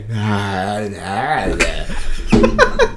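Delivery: drawn-out, low mock deaf moan; imitated deaf vocalizing. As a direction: copy a deaf person's wordless voice. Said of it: "I started doing that".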